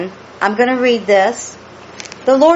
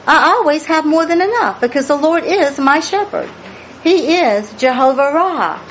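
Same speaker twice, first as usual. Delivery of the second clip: faith-filled declaration, higher; rising declaration; 6 semitones higher than usual. Real, not acted. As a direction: lift it high in proclamation. Climactic declaration.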